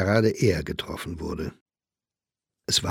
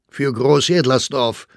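louder, angry jibe; yelling, losing composure; 4 semitones higher, 6 dB louder than usual. A narrator's reading. Staufner loses composure at the actress, yelling. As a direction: cry out a heated insult. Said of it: "schrie Staufner, der vollkommen die Fassung verloren hatte".

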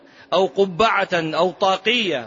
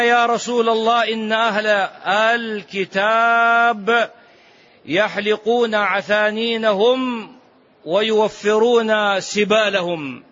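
raised questioning voice; 3 semitones higher, slower than usual. Acted.

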